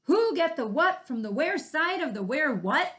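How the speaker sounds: little bunny all mixed up; baffled bunny. Acted. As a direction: tumble through it totally lost. Bunny confused by directions.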